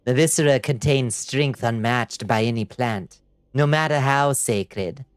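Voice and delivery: lightly voiced sinister alchemist; silly villain voice. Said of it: "I'm doing my silliest villain voice".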